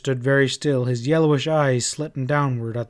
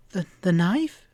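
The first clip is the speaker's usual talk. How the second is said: higher, faltering confused echo; dazed repeat; 6 semitones higher than usual. A narrator's reading. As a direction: repeat it as if you don't understand. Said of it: "she repeated stupidly".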